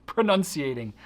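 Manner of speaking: Pronunciating, self-mocking and loud; mock dismay. Real, not acted. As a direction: own the made-up word, laughing at it. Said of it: "Oh, it's terrible".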